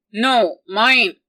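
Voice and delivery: put-on like a baby. A narrator's reading. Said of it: "like a baby".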